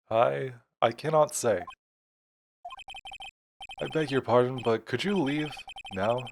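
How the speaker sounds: halting, then stiffly formal; lightly acted stuffy dismissal; pompous old lawyer. Grossberg asking the visitor to leave, stiffly formal.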